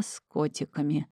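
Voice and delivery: "котиками" dropped soft in dull resignation; glum, to herself. A narrator's reading. She glumly notes her cat-print underwear. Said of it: "уныло констатировала я про себя".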